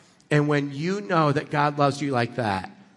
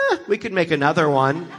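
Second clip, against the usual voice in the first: breezy, quick shrug-it-off; faux-casual dismissal; mock indifference; 2 semitones higher, faster than usual. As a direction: brush it off as a joke. Mock indifference to a lost kid.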